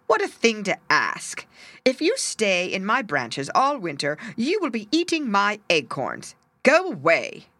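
a touch of a grumpy oak tree; lightly voiced grumpy oak. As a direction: turn the bird away a bit grumpily. Oak refusing the bird.

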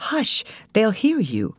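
a slow, hushed-sounding warning to her sister; cautioning. A narrator's reading. Ruth warning impulsive Alice, slow caution. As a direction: caution her gently, drawn out. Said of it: "cautioned her sister".

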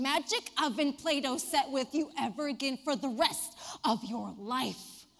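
a teacher losing patience, hammed-up; scolding. Teacher scolding a howling boy, mock stern.

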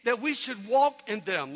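slow, deliberate verse reading; scripture recitation. Acted.

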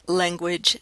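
"language" with the vowel of "bed"; short-e pronunciation. Shown as a demonstration. Lecturer comparing options for listeners, "language" with the bed vowel. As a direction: middle contrast, "language" said like "lenguage". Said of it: "Others have e".

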